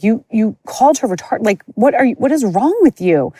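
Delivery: outraged mom. Retold or imitated. Mom confronting the teacher over the insult, indignant. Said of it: "my mom was like".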